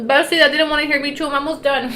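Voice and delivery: giggling through the words; laughing. Real, not acted. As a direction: laugh while apologizing. Laughing at own chewing.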